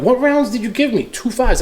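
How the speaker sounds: 1 retold disbelief. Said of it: "I'm like".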